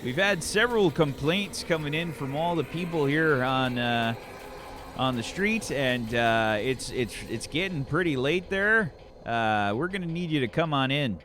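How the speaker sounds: lightly voiced patient cop; a hint of long-suffering local officer; placating police officer.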